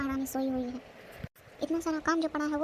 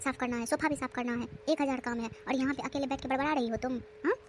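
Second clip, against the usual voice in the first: scolding bhabhi. Acted. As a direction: order her around like a harsh sister-in-law. Sister-in-law scolding the girl. (डाँटती हुई भाभी)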